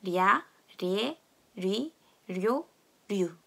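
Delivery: 랴 리에 리 료 류 drawn out slowly; slow read-along. Shown as a demonstration. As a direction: lead the class slowly syllable by syllable. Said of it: "다 같이 한번 해볼게요". (다 같이 천천히 따라 읽기)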